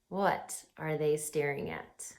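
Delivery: soft secretive whisper, barely breathed. Real, not acted. Host to young viewers building suspense, whispered. Host hushing kids before reveal.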